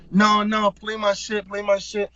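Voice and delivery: imitating a guy begging for his track; mock insistent demand. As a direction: nag it like a fixated man.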